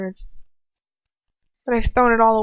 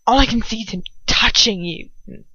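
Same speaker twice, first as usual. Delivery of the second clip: breathy, choked-up start of words; mild choking grief. Acted. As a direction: force the words past a tight throat. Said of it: "he chokes again".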